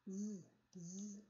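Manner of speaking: z, z buzzed with throat vibration; voiced z sound. Shown as a demonstration. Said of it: "A lot of vibration I can feel in my throat".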